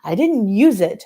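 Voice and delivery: put-on slow, heavy Dominican accent. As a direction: deny it in a thick Dominican accent. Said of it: "in her thick Dominican accent".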